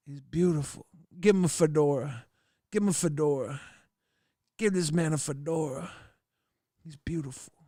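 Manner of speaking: swooning hush. Acted. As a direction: melt as you say it. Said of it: "Mooch's Toilet Bowl says".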